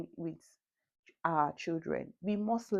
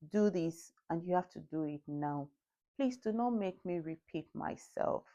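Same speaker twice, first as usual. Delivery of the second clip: stern but calm; 3 dB quieter than usual. Shown as a demonstration. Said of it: "I'm very stern with it".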